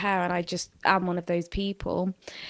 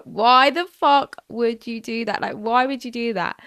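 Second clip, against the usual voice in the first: put-on 1 angry girlfriend; 4 semitones higher, 6 dB louder than usual. Girlfriend's angry reaction retold.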